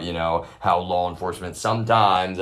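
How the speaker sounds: sometimes leaned on; stress on sometimes. Real, not acted. Ranting to listeners, stress on sometimes. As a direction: hit the word sometimes as the key qualifier. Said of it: "I'm emphasizing".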